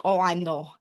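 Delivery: lightly imitated Russian mother; Russian accent. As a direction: mimic a mom's Russian delivery. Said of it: "She's very Russian".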